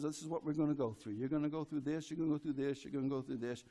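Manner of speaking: a lightly voiced God, low and quiet; hint of a calm divine voice laying out the road ahead; voicing God. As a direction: speak for God, low and hushed, almost confiding. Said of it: "God says".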